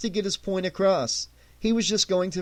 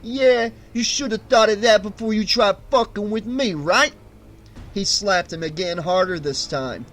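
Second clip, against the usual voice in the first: much higher, mocking street thug; taunting thug; 7 semitones higher, 4 dB louder than usual. A narrator's reading. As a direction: sneer every insult. Thug slapping Arlen.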